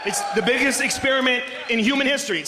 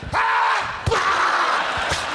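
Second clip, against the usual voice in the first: high startled scream; 9 semitones higher than usual. Retold or imitated. Hitler screams when punched.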